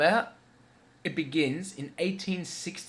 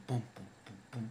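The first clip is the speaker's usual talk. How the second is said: soft, low drum booms; imitated drumbeat; 3 semitones lower, 11 dB quieter, faster than usual. Reviewer retelling the weird drums Alan hears, hushed booming. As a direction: mouth the distant drum beats quietly. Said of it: "he hears these weird drums".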